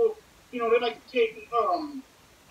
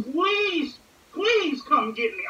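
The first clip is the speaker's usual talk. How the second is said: begging mom; 6 semitones higher, 3 dB louder, much slower than usual. Retold or imitated. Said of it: "I'm begging her".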